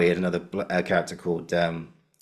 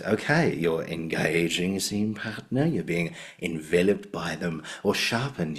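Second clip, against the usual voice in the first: slow, drawn-out Australian tutor; affectionate impression with an Australian accent; Andrew Davidson; 3 dB quieter, slower than usual. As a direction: imitate an Australian acting teacher, stretching the words. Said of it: "it's got an Australian accent".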